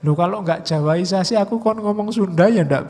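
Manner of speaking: protes bersemangat. Real, not acted. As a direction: push back hard at the accusation. Membantah tuduhan Jawaisasi. (membantah dengan suara keras dan tinggi)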